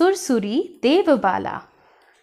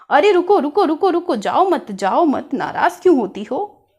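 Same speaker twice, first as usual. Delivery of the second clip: pleading; 3 semitones higher, faster than usual. Acted. Begs teacher not to leave.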